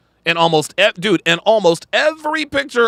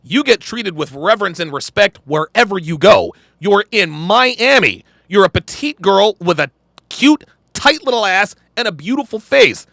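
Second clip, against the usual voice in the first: retold telling-off; 2 semitones higher than usual. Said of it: "I told her straight up".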